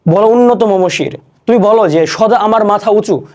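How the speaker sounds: measured, rousing call to the hero; poem recitation. Shown as a demonstration. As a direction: declaim it like the poet calling a hero. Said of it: "কবি আহ্বান করতেছে যে".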